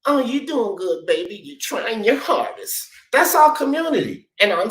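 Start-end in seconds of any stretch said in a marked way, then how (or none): 0.0-2.9 mock coddling. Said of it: "I watched her do it".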